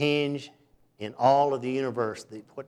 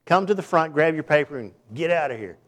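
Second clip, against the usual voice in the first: brisk professor; 3 semitones higher, 4 dB louder than usual. Retold or imitated. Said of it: "he said".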